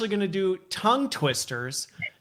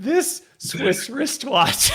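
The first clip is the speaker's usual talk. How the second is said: very slow, higher, careful; very slow demo; 7 semitones higher, much slower than usual. Shown as a demonstration. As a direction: tread slowly over every sound. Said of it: "I'll see if I can even do it".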